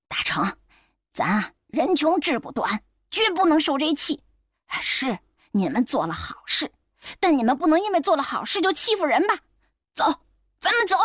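生气. Acted. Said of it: "生气地站了起来".

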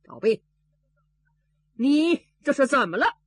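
loud furious bark of a name; angry magistrate. A narrator's reading. Magistrate Shi, furious at the bean-paste mess, loud angry shout. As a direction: slam out the question in anger. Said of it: "大人气坏了".

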